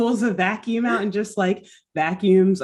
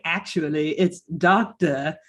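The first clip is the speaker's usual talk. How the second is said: a laid-back 1950s pitchman; Southern salesman voice. Retold or imitated. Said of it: "I'm just gonna keep impersonating him".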